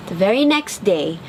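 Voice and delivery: ordinary delivery, nothing marked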